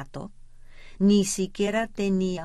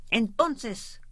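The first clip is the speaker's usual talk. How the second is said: shouting; 5 semitones higher than usual. Acted. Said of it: "gritó el jefe".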